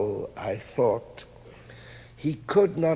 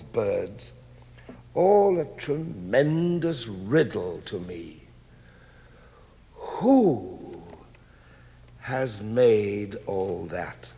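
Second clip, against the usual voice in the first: measured, earnest reading of a letter, slowing on the questions. Acted. Reading a sculptor's letter to the audience, earnest and measured. Reads friend's letter aloud.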